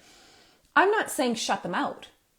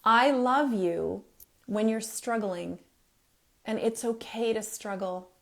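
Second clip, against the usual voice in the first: loving reassurance. Shown as a demonstration. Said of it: "You see how much of this is work".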